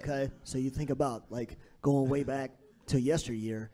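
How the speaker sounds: slow radio DJ voice. Acted. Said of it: "is that your D J voice".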